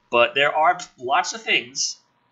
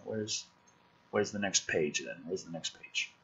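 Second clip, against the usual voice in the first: softer, puzzled self-questioning; confused muttering; 4 semitones lower, 12 dB quieter than usual. Retold or imitated. Scrolling the script and finding no next page, quiet puzzlement. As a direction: mumble it to yourself, baffled. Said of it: "And I'm like".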